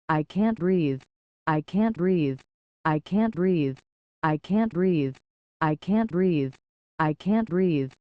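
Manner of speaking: steady insistent repeated refrain; slam poetry refrain. Acted. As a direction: hammer the same line again and again.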